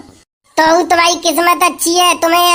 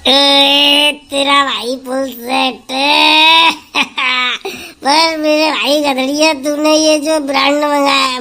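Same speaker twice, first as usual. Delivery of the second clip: put-on drunk bragging; 3 semitones lower than usual. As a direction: boast and threaten like a drunk. Drunk man boasting then threatening. (नशे में धीमी धमकी भरी आवाज़)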